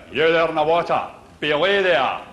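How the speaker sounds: a lightly voiced sea captain calling down from the deck; nautical captain call. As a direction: bark it like an old salt from the poop deck. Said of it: "that's nautical".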